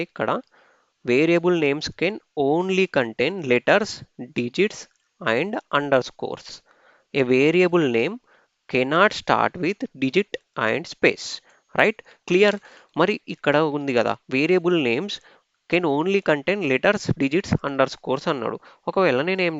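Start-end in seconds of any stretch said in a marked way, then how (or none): 1.0-11.3 reading rule text aloud very slowly, word by word; slow dictation read. Acted. Teacher reading the slide rules slowly to students. 14.3-18.3 reading rule text aloud very slowly, word by word; slow dictation read. Acted. Teacher reading the slide rules slowly to students.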